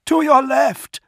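high, loud warning yell; urgent shout, pitched right up. A narrator's reading. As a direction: yell a sudden battle direction. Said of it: "Dantiok yelled".

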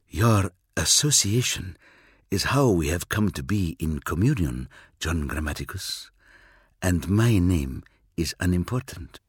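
a cool Eldar, aloof and sure of himself; alien Eldar. Acted.

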